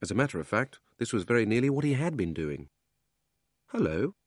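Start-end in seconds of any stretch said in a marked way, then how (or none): 3.7-4.2 put-on higher-pitched girl's hello; light, higher voice for a young girl; Polly's greeting. Polly greets the boy next door, higher girl's voice. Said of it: "said Polly".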